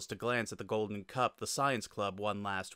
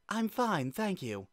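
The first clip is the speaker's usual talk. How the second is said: curt irritated retort; snapped; 10 semitones higher than usual. Acted. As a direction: brush him off sharply. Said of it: "Toriel snapped".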